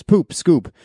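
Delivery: drawn-out playful chant; playful singsong. Pretend. Catchphrase rating scale, sung out.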